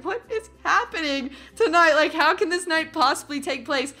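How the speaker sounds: high-pitched acted bewilderment; retold disbelief. Girl in the truck facing bats, bewildered retold exclamation.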